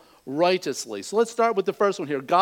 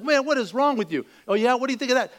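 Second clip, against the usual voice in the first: higher-pitched mock exasperation; furious bikers; 6 semitones higher, faster than usual. Biker baffled by the laughing driver, mock furious. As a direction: confront him in acted disbelief and anger. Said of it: "just furious at him".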